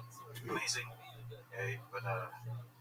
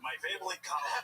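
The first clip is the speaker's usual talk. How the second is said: Asian accent; 3 semitones higher than usual. Shown as a demonstration. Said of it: "literally like subtitles".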